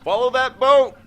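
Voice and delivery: high, loud urgent shout. Acted. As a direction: yell it like an action hero.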